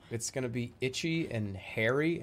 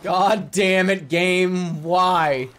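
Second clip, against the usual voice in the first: loud, slow, drawn-out outburst; exasperated yell; 4 semitones higher, 10 dB louder, much slower than usual. Real, not acted. Player cursing the broken game, loud frustrated yell. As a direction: bellow it at the game, stretching each word.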